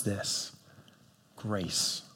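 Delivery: grace almost breathed out, very soft and low; hushed. Acted. Pastor naming God's response, hushed. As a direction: give the word quietly. The answer to betrayal.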